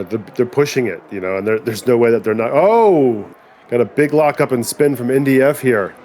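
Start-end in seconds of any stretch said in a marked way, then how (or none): 2.5-5.9 sudden alarmed exclamation; surprised. Real, not acted. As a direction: caught off guard, blurting it out. Commentator reacts to spin.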